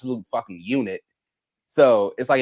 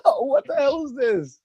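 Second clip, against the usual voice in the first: surprised; 12 semitones higher than usual. Retold or imitated. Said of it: "I was like".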